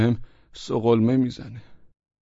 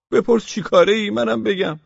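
higher, louder eager offer; 10 semitones higher, 5 dB louder than usual. Acted. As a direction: jump at the chance to answer. Eagerly inviting the question. (با شوق و صدای زیرتر و بلندتر)

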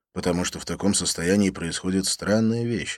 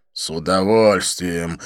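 slow, deferential reply; a hint of an obsequious waiter; respectful waiter; 5 dB louder, slower than usual. Waiter Sweetie deferentially answers Didier, slow and polite. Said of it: "почтительно попятился".

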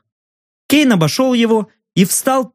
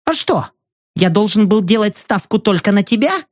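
defiant retort; 4 semitones higher than usual. Acted. Journalist retorting sharply.

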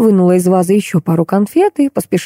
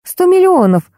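high startled blurt; 12 semitones higher than usual. Acted. Tanya blurts the mantra into the phone, startled. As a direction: blurt it out without thinking. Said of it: "машинально брякнула я".

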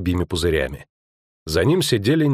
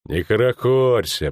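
conciliatory; 2 semitones higher, slower than usual. Acted. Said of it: "примиряюще сказал Нисар".

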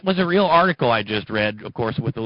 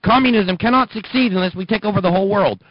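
higher, louder declaration; raised voice; 8 semitones higher, 4 dB louder than usual. Retold or imitated. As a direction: proclaim it loudly. Quoting Marx, raised voice.

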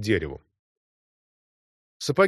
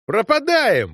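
high, loud exclamation in reckless rapture; doomed ecstatic cry; 9 semitones higher, 4 dB louder, slower than usual. A narrator's reading. Narrator crying out under fire, reckless ecstasy. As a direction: cry it out thrilled by the danger. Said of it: "воскликнул я, охваченный гибельным восторгом".

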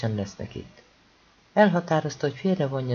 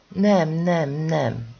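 raised, louder protest, moderately acted; crying out; 3 semitones higher, 5 dB louder, much slower than usual. A narrator's reading. Méri protests to the servant, crying out. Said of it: "kiáltotta Méri".

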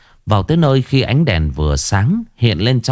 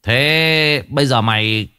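mock exorcist roaring a challenge; shouting at the ghost; 7 semitones higher, slower than usual. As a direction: yell the demon out of the body. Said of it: "mà quát lên".

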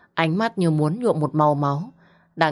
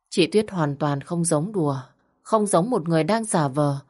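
plain reading voice

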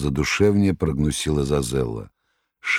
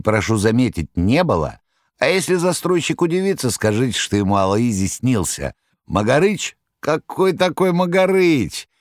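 much higher jester voice; Koroviev; 6 semitones higher, 3 dB louder than usual. Acted. Koroviev reassuring the master, high clownish voice. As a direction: jeer like a clownish trickster.

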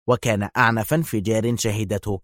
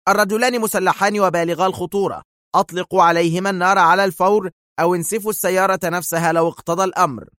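high, urgent dispatcher's alert; nervy emergency broadcast; agitated; 6 semitones higher than usual. A narrator's reading. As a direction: bark urgent orders to all units, pitch raised. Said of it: "يقول في عصبية".

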